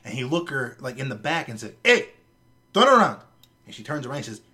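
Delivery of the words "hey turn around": higher, louder mock bark; retold angry confrontation, raised voice; imitating an angry manager. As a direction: call her out like a fed-up store owner. Store manager confronting shoplifting customer.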